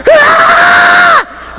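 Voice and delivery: long high-pitched scream of pain; reenacted scream. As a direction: let out a sustained, hammed-up shriek. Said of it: "I'm screaming".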